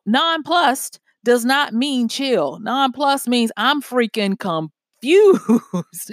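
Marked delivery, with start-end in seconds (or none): 3.6-6.1 playfully drawn-out, exasperated bafflement; hammed-up bewilderment, slowed right down; mock confusion. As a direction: stretch out "confused" for comic effect, ending on a laugh. Acts out the word's real meaning.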